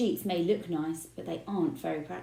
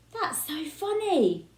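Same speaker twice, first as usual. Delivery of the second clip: giggling; 9 semitones higher, 3 dB louder, slower than usual. A narrator's reading.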